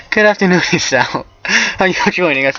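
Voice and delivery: high, polite greeting; high-pitched genteel hello; Lily character voice. A narrator's reading. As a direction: pitch it up for a courteous girl.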